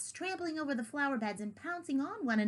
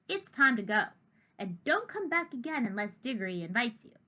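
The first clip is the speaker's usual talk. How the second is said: firmly. Acted. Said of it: "saying firmly".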